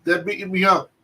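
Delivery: put-on a proud old-timer revealing who he is; old man voice. Naismith telling the cook about his grandfather, mock old-man voice. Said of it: "He goes".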